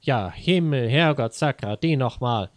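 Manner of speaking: a touch of mock fury; mild annoyed wife cursing; angry cursing. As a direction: swear and scold, hammed-up. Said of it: "rief sie erbost".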